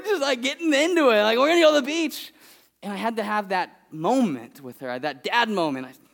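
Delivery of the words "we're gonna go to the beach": put-on eager little girl. Daughter voiced.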